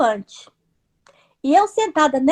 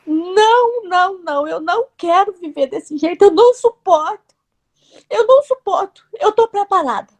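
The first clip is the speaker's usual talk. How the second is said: reliving a forceful, anguished no, raised pitch; emphatic refusal; 4 semitones higher than usual. Retold or imitated. Woman refusing to live that way, forceful and emotional. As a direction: refuse with force, stretching each no. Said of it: "Aí eu falei bem forte".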